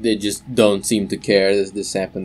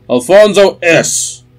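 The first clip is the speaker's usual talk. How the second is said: slow, higher, louder broadcast call; announcement; 10 semitones higher, 9 dB louder, slower than usual. Acted. Telecaster broadcast calls the player's name, slow and loud. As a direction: call the name over a loudspeaker.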